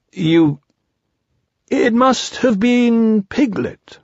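high, slow bear voice; high drawn-out storybook protest; defensive Pooh. A narrator's reading. Pooh shifts blame.

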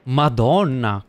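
loud exasperated curse. Real, not acted. Gamer cursing loudly.

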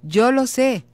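put-on high, gentle and reassuring to a child; a parent soothing an upset son. Shown as a demonstration. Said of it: "Es como decir".

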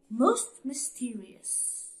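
slow, amused newsreader aside; grinning newsreader. Acted. Newsreader grinning at the owl story, slow amused aside. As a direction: let a grin into a slow sign-off. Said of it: "allow themselves to grin".

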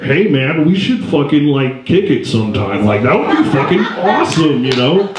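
lightly voiced stoner-buddy chuckle; a hint of Seth Rogen's laughing bro talk; Seth Rogen impression. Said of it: "I do a really good Seth Rogen".

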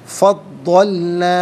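फ़द्दलना slow, with the द्द held doubled and stressed; doubled dad. Shown as a demonstration. Teacher corrects फ़द्दलना with a held doubled द्द. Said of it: "इसे जमाओ के साथ पढ़ेंगे".

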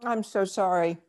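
talking with a mouth full of food. Real, not acted. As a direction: speak through a bite of food. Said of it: "'cause you're chewing?".

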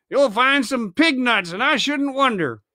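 mock them without caring; coolly insolent. Silver insolently mocking the angry pirates. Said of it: "with the coolest insolence".

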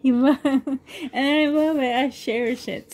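choked up with real feeling, pushing through; getting emotional. Real, not acted. Showing the family book from her father-in-law, emotional and teary. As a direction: voice catching, a teary laugh breaking the words. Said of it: "sorry, I'm getting emotional".

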